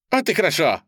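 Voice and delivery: loud, high blurt. A narrator's reading. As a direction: burst it out eagerly. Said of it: "выпалил Джимми".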